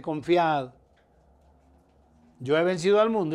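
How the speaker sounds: a firm preacher's cry of confidence; loud proclamation. Shown as a demonstration. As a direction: ring it out to the congregation. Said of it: "Escuchen esto".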